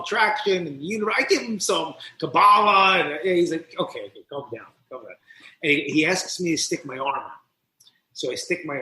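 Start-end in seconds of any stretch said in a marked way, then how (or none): 3.8-5.1 low, softened settling-down voice; retold calming. Priest cutting off talk of Kabbalah, calming. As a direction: imitate someone gently reining in a rambler. Priest soothing his rambling.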